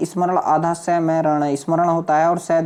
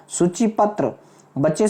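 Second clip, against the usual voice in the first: usual speaking voice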